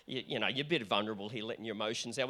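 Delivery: a hint of a hushed, disapproving member; mock quiet plea to tone it down; reserved churchgoer. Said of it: "some of you looking at me now and going".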